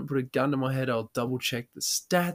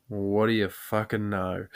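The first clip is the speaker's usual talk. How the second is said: slow, deliberate punchline; retold deadpan cop; 2 semitones lower than usual. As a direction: draw it out like a cop who has caught him. Cop delivers slow punchline back.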